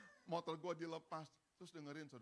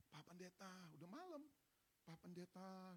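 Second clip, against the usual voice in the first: retold night-time call; 3 semitones higher, 8 dB quieter than usual. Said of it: "Saya getok pintunya".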